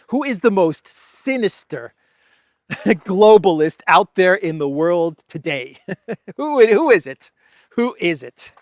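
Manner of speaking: high, loud, laughing question; laughing tease. Real, not acted. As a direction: chuckle through the mock-sinister buildup. Mock sinister teaser, laughing.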